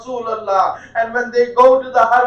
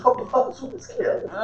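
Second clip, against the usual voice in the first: tearful repeat; 10 dB quieter than usual. Real, not acted. Preacher weeps repeating the death.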